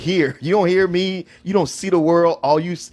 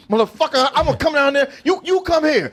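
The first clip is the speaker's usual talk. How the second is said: imitating an angry threat; 9 semitones higher than usual. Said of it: "but he was like".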